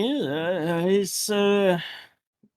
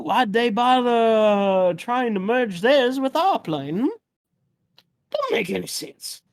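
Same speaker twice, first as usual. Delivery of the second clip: put-on old man voice. GM plays old man NPC.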